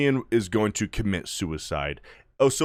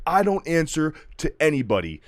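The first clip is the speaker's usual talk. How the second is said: godlike declaration; 7 semitones higher than usual. Retold or imitated. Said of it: "He's like".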